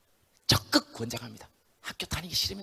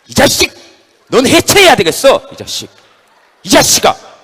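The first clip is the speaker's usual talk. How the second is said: loud, high, slow tirade; furious shout; 9 semitones higher, 16 dB louder, slower than usual. Acted. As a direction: rage at the hand. Head yelling at right hand. (오른손에게 분노를 퍼붓는 머리의 고함)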